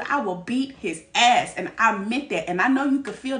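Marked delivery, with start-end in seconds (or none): 0.0-1.5 retold threat. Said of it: "I remember telling my dude".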